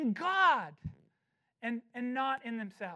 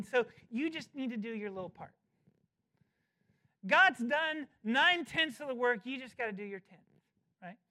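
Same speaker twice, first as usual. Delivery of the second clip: mocking opponents; 4 dB louder than usual. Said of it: "some want to frame it this way".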